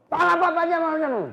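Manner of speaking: high and loud, forced answer; high nervous reply. Acted. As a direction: answer too brightly, covering up. Fatimah feigns calm.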